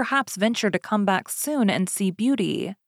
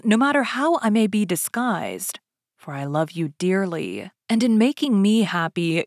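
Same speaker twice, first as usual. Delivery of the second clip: tender. Acted. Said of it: "a voice that went straight to her heart".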